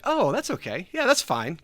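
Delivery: mock unbothered reassurance; hiding disappointment. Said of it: "you're not gonna show disappointment".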